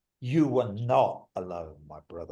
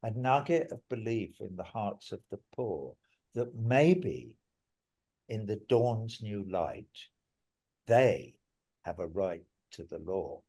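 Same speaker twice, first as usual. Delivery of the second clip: recited lyric. Shown as a demonstration. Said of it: "there's a bit that I wrote, though, that goes".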